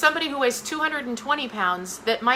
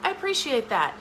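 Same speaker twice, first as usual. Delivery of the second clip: gracious thanks; 3 dB quieter than usual. Shown as a demonstration.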